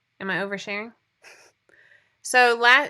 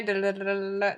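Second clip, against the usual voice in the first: mock drum roll. Real, not acted. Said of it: "that's my drum roll".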